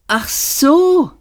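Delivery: high-pitched, caught-out "oh"; guilty startle. A narrator's reading. Zaphod answers Arthur's reminder of Islington, guiltily startled. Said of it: "sagte Seyfort mit schuldbewusstem Erschrecken".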